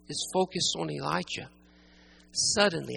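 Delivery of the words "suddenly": "suddenly" set apart with pauses; emphatic, low-pitched "suddenly"; stress on suddenly. Shown as a demonstration. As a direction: land firmly on "suddenly". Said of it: "I want to emphasize that word suddenly".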